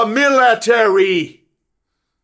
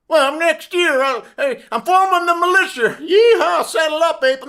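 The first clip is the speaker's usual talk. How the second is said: higher, hammed-up redneck bluster; mock redneck; 7 semitones higher than usual. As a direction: parody a boastful yokel. Mocking redneck militia talk.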